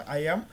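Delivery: আইয়াম as "eye-am", lifted at the end; silent final b. Shown as a demonstration. Teacher sums up how iamb sounds, with silent b. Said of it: "শেষে বটা উচ্চারণ হবে না".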